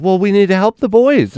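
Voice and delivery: high, pleading mother voice; doting mom. Retold or imitated. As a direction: insist on helping the boys. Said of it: "she was like".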